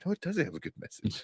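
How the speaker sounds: imitated blunt retort. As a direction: shut the claim down. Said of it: "I'm like".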